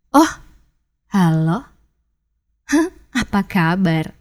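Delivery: "Oh", pause, low "halo", pause, "Hah, apa kabar"; different emphasis, hesitant greeting. Shown as a demonstration. Coach demonstrating how emphasis changes meaning, low halting greeting. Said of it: "ketika kita memberikan penekanan yang berbeda".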